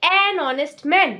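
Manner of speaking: slow, "an honest man" drawn out; slow example. Shown as a demonstration. Teacher slowly giving the "an honest" example. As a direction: say it slowly and clearly. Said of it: "अगर मैं बोलूं कि".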